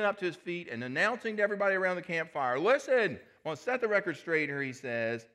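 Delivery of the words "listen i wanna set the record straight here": loud, higher shout for attention; loud call out. Acted. Peter silencing the campfire crowd with a loud higher shout. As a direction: demand that everyone listen.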